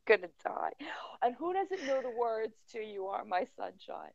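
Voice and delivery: hushed whisper of disbelief; real whisper. Real, not acted. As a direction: whisper as if too mortified to speak aloud.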